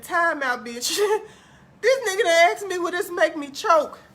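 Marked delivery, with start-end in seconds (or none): 1.8-4.0 laughing. Real, not acted. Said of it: "I'm choking laughing".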